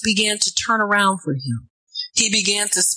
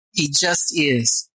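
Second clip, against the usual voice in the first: slow quieter repeat; 5 semitones lower, slower than usual. Real, not acted.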